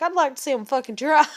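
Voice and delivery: high, loud retold challenge; loud defiance. Girlfriend daring the supposed killers, defiant. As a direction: re-enact daring them, full voice.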